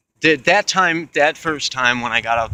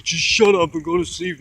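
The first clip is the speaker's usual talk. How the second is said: higher-pitched imitation of a yelling man; mock yell; 7 semitones higher, 3 dB louder than usual. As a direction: retell his yell without fully shouting. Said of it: "the dude's yelling at me".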